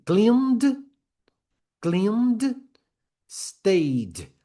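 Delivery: "Cleaned" and "stayed" each as one crisp syllable; repeat-after-me model. Shown as a demonstration. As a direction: model "Cleaned, stayed" for students, d tacked straight on. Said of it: "Repete comigo aí".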